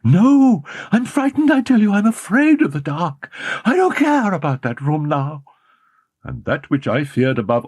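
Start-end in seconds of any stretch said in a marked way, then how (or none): 0.0-5.4 put-on higher panicked young woman; anguished cry. A narrator's reading. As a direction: beg in terror. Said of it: "cry of anguish".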